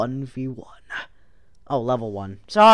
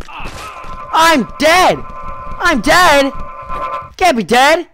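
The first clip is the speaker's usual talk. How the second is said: mock dramatic despair; 7 semitones higher, slower than usual. Real, not acted. Character dies in game.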